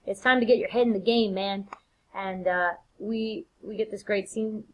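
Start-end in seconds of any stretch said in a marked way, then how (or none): 0.1-1.7 loud, high, pushy wife; chivvying Lady Macbeth. Acted. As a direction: cajole your husband back to his guests, starting high and easing down. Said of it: "tells her husband".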